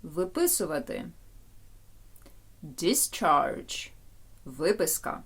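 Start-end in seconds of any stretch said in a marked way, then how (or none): 2.6-3.9 Discharge stressed on the first syllable; DIS-charge, weight up front; noun stress. Shown as a demonstration. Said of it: "коли іменник discharge".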